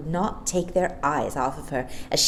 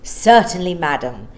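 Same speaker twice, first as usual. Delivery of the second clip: agreeable; 6 dB louder than usual. Acted. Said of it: "said the assistant agreeably".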